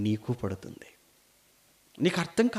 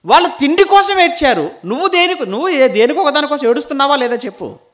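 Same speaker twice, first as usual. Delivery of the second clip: loud, high, hammering rebuke; full-force preaching; 10 semitones higher, 12 dB louder than usual. Acted. Preacher rebuking people who cry for worldly things, loud and insistent. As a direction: hammer each repeated complaint at the congregation.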